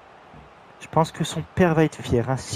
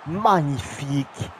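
excited; 4 semitones higher, 6 dB louder than usual. Real, not acted. Celebrating a goal.

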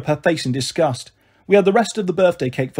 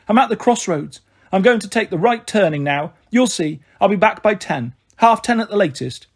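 lightly voiced Marigold, a little higher; reassuring Marigold; 4 semitones higher than usual. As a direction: promise brightly, lightly acted. Narrator voices Marigold promising.

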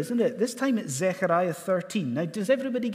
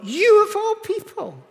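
"you of all people" much higher and louder; stress on you; 7 dB louder than usual. Shown as a demonstration. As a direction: punch "you" high and loud. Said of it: "do you see what Jesus is saying".

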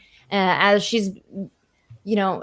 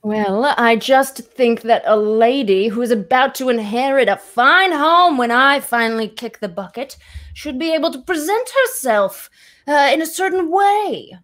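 put-on higher, prim old lady voice; prim grandmother; 3 semitones higher, 3 dB louder than usual. Grandmother lecturing her granddaughter on manners, prim and higher. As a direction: scold her about being a lady.

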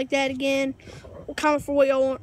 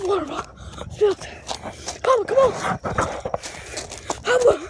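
while running; 5 semitones higher than usual. Real, not acted. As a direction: talk while sprinting away, panting. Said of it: "we're running right now".

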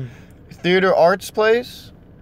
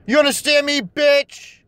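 angry demand; 7 semitones higher, slower than usual. Real, not acted. Berating the Pokemon.

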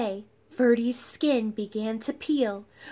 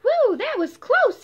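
high, loud breathless relief; high loud relieved sputter; 11 semitones higher, 6 dB louder than usual. Acted. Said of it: "he sputtered".

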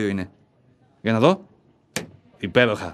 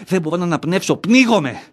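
panicked cry for air; 3 semitones higher than usual. Acted. Panic attack, choking.

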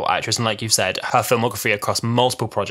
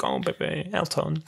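soft mock tender; 5 semitones higher, 6 dB quieter than usual. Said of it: "she's like".

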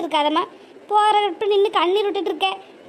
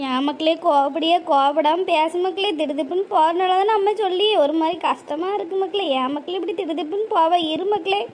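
put-on pleading old mother; 3 semitones lower than usual. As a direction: coax her gently not to be angry. One actor voices pleading mother.

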